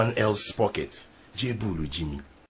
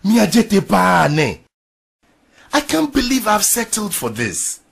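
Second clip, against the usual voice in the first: lamenting; 9 semitones higher, 9 dB louder than usual. Acted. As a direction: wail it out. Wife laments her life.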